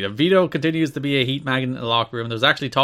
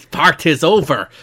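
put-on Scottish accent; 2 semitones higher, 6 dB louder than usual. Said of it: "I'm veered more to Scottish here".

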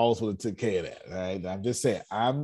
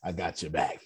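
quiet reassurance; 4 semitones lower, 6 dB quieter than usual. Retold or imitated. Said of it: "I'm just gonna say".

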